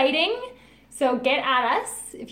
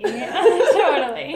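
laughing; 4 dB louder, much slower than usual. Real, not acted. Laughing agreement, drawn out.

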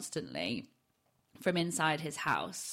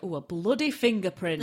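retold stale joke; 5 dB louder than usual. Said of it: "making the joke".

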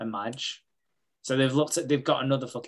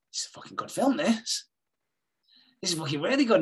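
eager whisper; 5 semitones higher than usual. Retold or imitated. Joe pervy over film.

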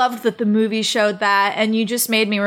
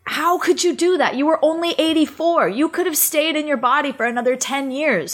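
raised, higher pitched outburst at a dead friend; lightly replayed anger, pitch up; mock angry yell; 5 semitones higher than usual. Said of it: "I would yell at him".

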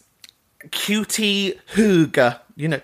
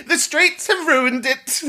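higher, slow, relished repeat; high, slow, delighted quote; savouring the quote; 11 semitones higher, slower than usual. Retold or imitated. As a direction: roll the line out like a catchphrase. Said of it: "my favourite line".

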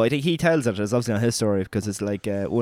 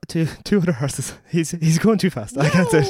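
real helpless laughing, high and louder; breaking into laughter; 6 semitones higher, 3 dB louder than usual. Real, not acted. Cracks up while telling the story.

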